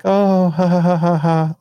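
high, loud ha-ha-ha brushing it off; fake awkward laugh. Dog owner laughing it off.

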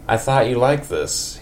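a hint of a country neighbour. In a country accent, Ned tells Marge it was wonderful. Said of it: "a super country voice for Ned".

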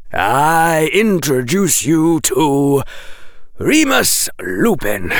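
a dry professor correcting the rescuer; Quirrell lecturing. Acted.

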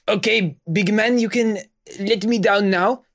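high, teasing plea to be set down; amused request. Acted. Viola asking the hugging bat creature to let her down. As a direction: coax the big guy to let go.

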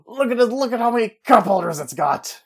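lightly voiced hard-sell car salesman; a hint of a used car huckster; pushy used car salesman. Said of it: "style of the used car salesman".

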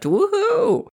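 high whooping cheer; a squealing happy woohoo; excited woohoo. Real, not acted. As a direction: whoop it up with delight. Cheering about automatic facelift.

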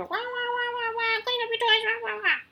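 high, whiny parody of a parent nagging about toys; mock nagging parent. Mother mocking her own nagging at messy kids, high whiny voice. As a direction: whine it up high like a droning nag. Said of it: "It's easy to just be like".

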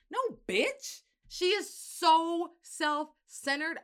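high, loud, slow mocking voice.

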